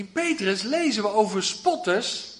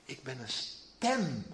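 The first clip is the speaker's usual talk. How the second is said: zacht, traag en laag; nederig zacht; 7 semitones lower, 9 dB quieter, slower than usual. Acted. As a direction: zeg het langzaam en bescheiden. Johannes antwoordt als hem gevraagd. (langzaam en nederig als Johannes)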